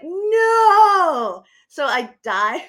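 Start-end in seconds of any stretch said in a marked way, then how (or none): 0.0-1.4 high, loud cry of "No!"; a high, loud shriek of "No!"; retold panicked scream. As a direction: yell it as the truck comes at you. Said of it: "I'm like".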